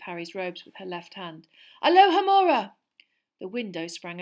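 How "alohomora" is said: loud, high incantation; ringing, lifted spell word; spell cast aloud. Acted. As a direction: fling the spell out with force. Casting an unlocking spell.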